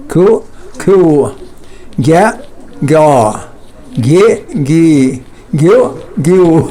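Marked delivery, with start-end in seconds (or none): 4.0-6.7 گے، گی said slowly and clearly; slow pronunciation drill. Shown as a demonstration. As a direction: draw out گیو as a teaching sample. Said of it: "سمجھ رہے ہیں نا". (گے اور گی کا آہستہ واضح تلفظ)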